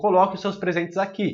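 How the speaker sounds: ordinary delivery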